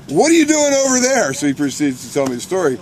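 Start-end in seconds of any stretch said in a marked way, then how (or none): 0.1-1.3 high, louder incredulous holler; re-enacted shouted challenge; retold yelling. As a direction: demand it loudly, pitched way up. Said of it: "The guy I'm yelling at".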